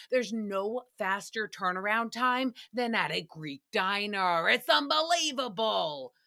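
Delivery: lightly imitated accent, stretched last word; half-committed imitation of his accent; Sebastian. Host quotes Sebastian on diner turnaround, slight imitated accent. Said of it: "slightly start to imitate them".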